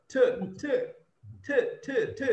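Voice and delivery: crisp separate T sounds; isolated T sound. Shown as a demonstration. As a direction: drill the "T" of "water", one beat at a time. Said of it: "There's T actually".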